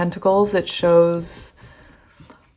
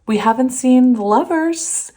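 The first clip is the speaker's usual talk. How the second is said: lightly voiced spirit guide, higher and louder; a hint of an otherworldly messenger; spirit guide's voice; 7 semitones higher, 5 dB louder than usual. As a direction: pass on the guide's message with a lift. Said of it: "my spirit guide said".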